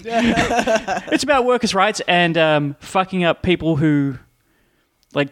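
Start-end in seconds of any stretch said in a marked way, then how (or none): 0.0-2.4 slow deliberate. Real, not acted. Wry repeat after laugh.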